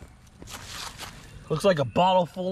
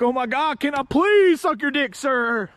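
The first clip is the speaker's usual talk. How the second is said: slightly higher pleading voice; mock begging; 5 semitones higher than usual. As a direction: beg with hammed-up eagerness. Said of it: "He'll be like".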